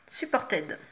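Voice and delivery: French speaker's go at English; attempted English accent. Real, not acted. Vlogger naming a blush shade, attempted English accent. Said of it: "Avec mon super accent anglais".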